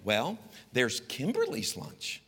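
slow, soft, sweetly teasing mother; sing-song mom. Retold or imitated. Mother to her son, slow and sing-song. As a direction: lay out each lunch slowly and sweetly. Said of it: "this is how she spoke to me".

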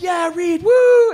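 high, whooping cheer; party cheer. Retold or imitated. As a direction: imitate a rowdy group egging a friend on. Porn stars cheer him on.

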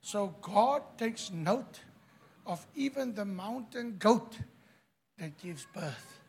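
soft, hushed preacher's remark; quiet. Acted. Quiet first take, later shouted.

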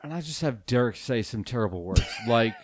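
a hint of a grave public apology, played for laughs; mock solemn apology. Host addresses seven listeners in a hushed mock-solemn apology. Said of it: "this is a special message to our listeners".

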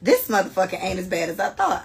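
dropping into plain American speech, amused; American accent. Acted. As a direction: say it like an American, laugh underneath. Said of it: "say that like an American".

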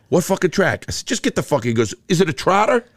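lightly voiced confused sidekick; confused henchman. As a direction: play the puzzled driver. Voicing Tommy's confused questions.

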